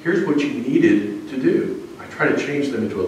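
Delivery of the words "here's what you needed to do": calm reassurance. Retold or imitated. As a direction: soothe the upset student gently. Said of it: "very calmly and say".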